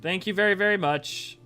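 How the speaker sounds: real surprise, high and loud, settling slightly; excited thanks. Real, not acted. Streamer thanking viewer for thirty dollars, excited high burst. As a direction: burst into high-pitched, delighted gratitude.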